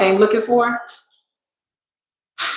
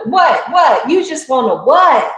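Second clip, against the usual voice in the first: higher, sharp retold comeback, slowing at the end; mock indignant retort; 5 semitones higher than usual. Retelling a comeback to someone, mock indignant. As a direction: snap back at a silly excuse. Retold confrontation, mocking reply.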